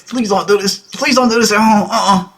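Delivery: high-pitched mock pleading; comic high "please don't" worry; her inner plea. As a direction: imitate a woman silently begging behind her smile. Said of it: "in her head, she's like".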